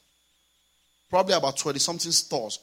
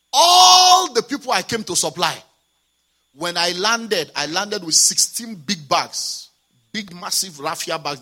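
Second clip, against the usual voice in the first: preaching shout; 3 semitones higher, 10 dB louder, slower than usual. Real, not acted. The pastor driving the story home to the congregation, louder and slow. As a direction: proclaim it to the whole church. Preaching climax after now listen.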